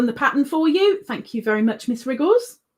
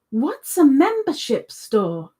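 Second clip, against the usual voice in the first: slow, higher, emphatic puzzlement; insistently baffled; baffled question; 4 semitones higher than usual. Real, not acted. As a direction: draw the question out, mystified. Asks the same baffled question again.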